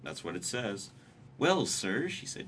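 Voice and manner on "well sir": higher, louder polite address; lightly acted story heroine; Anne's character voice. Voicing Anne in story reading.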